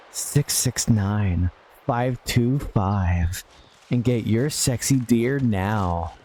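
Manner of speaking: slow, smooth mock ad read; late-night hotline ad. Streamer voicing a fake phone ad to chat, slow and smooth. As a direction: sell the hotline like a cheesy TV ad.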